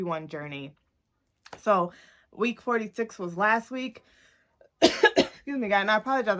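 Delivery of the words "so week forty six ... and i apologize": talking with a retainer in; slight retainer lisp; wearing a retainer. Real, not acted. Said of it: "I have my retainers in, so if you hear that".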